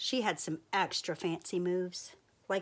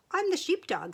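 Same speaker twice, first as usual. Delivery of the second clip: whisper; 10 semitones higher, 5 dB louder than usual. Acted. Sheepdog answers from under his hair.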